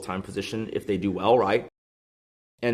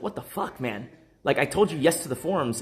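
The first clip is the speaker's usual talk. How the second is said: high, stunned "what the fuck"; incredulous outburst; 4 semitones higher than usual. Retold or imitated. Recalling being passed over at work, high incredulous outburst.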